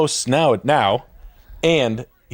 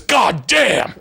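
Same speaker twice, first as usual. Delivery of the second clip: higher, drawn-out amazed curse; mock amazement; 10 semitones higher than usual. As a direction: marvel at the mess. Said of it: "he was like this".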